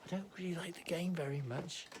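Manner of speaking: soft confessional whisper; hushed admission to the camera; whispered aside. Real, not acted. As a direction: whisper it like a secret.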